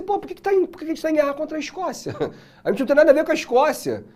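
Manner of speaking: high, fast bewildered protest; parliament protesting to the king, high and fast; baffled parliament. Acted. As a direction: whine it like puzzled lawmakers. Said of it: "O parlamento falou assim".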